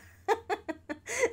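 high villain cackle; evil laugh. Real, not acted. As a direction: mustache twirling villain laugh. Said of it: "me sale la risa malvada".

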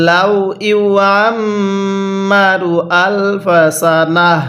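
slow, chanted Quranic recitation. Shown as a demonstration. Teacher recites the verse for students to learn. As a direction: draw each syllable out melodically. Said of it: "এই তাটাকে হা বানিয়ে দিব।".

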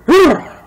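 loud, high burst of breath; sudden loud comic exhale; accidental Nixon-like huff. Real, not acted. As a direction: blurt a wordless Nixon-style noise. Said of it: "that was like a Richard Nixon impression".

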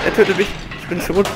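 high shrieking panic; terrified scream. Real, not acted. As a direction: scream as if caught. Caught by monster in game. (panisch kreischend)

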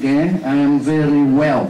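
I am very well said slowly and clearly; slow, careful English. Shown as a demonstration. Teacher modelling a careful English greeting slowly. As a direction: spell the phrase out slowly. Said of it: "chứ không phải I'm very well".

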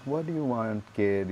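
soft, gentle imitation of kind strangers; lightly acted kindly question. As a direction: ask it softly, mildly kind. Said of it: "being so kind to me".

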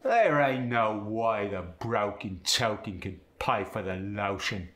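broken, token, lotion with an OW vowel; Cockney, rounding O into OW; Cockney ow sound. Shown as a demonstration. Student demos the Cockney O on the broken token line. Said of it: "O sound gets changed to the ow sound".

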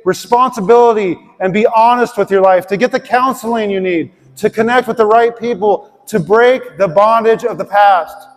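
emphatic preaching. Real, not acted. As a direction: press each point home to the congregation.

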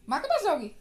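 high, loud coaxing question. Real, not acted. Asks the toddler again. (बच्ची को ऊँची आवाज़ में फुसलाते हुए)

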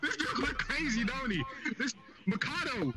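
laughter running through the words; amused laughing. Real, not acted. Player laughing at how another player's avatar looks, amused. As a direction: giggle while pointing someone out.

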